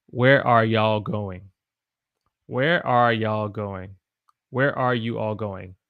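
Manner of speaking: slow, careful. Shown as a demonstration. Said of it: "I would say".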